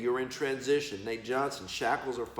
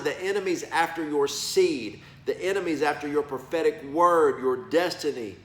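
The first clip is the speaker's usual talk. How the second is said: retold preaching; 2 semitones higher, 5 dB louder than usual. Preaching to business folks.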